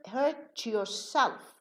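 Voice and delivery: "hurt yourself" slowly, the t turned into ch, hur-chorself; linked demo. Shown as a demonstration. Teacher slowly showing students how hurt yourself joins. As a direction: blend the t of "hurt" into ch before "yourself". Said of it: "T changes into cha".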